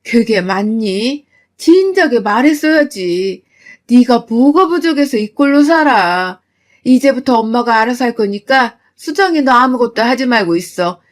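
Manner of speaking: loud, heated rebuke; angry scolding. Acted. Mother scolding daughter for hiding abuse, furious. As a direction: scold out of protective fury.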